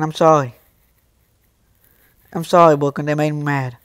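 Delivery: subdued, sincere apology; quietly sorry; apologetic. Real, not acted. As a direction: own up softly to losing your temper. Apologising to Brooklyn after losing temper.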